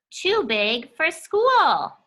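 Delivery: put-on drawn-out whiny child; a slow, mopey storybook complaint; slow sulky child voice. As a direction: sulk it out slowly like a too-big kid. Reading character line in book.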